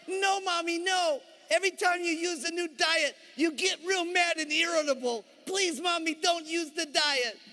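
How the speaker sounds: high, whining kiddie voice; pleading children. Acted. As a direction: beg like a small child. Children plead with their mother.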